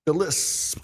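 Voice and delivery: "lisp" with a drawn-out lispy S; mock a lispy S on "lisp"; lisp demo. Shown as a demonstration. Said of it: "I don't wanna sound like the lisp".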